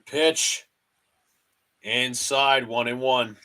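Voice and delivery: broadcaster cadence, calling each pitch; mock radio play-by-play of a Yankees game. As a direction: call the game like a TV announcer.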